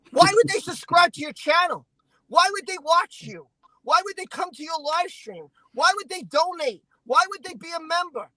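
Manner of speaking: insistent rhetorical questions, each falling hard; real indignation, hammering each question; indignant challenge. Real, not acted. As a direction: fire off each why as an accusation.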